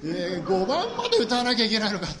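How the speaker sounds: mock protest. Boy told to sing all five verses, hammed-up protest. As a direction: whine in exaggerated disbelief.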